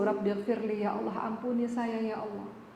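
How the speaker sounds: worshipper who understands the words, praying earnestly; earnest prayer. Acted. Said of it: "Yang paham pasti sungguh-sungguh".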